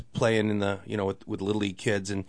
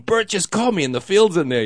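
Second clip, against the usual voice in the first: much higher and louder, jumping with joy; overjoyed; 9 semitones higher, 7 dB louder than usual. Retold or imitated. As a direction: shout the good news to friends on the phone. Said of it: "and I'm going".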